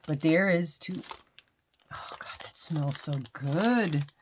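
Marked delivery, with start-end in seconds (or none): 1.9-4.1 slow unvoiced whisper; blissful whisper. Real, not acted. Smelling the soap from the gift, slow whisper. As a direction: breathe it out savoring the scent.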